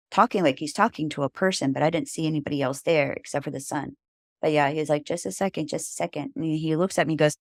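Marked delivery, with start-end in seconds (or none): 5.0-6.3 hushed aside. Retold or imitated. Craig speaking toward the light.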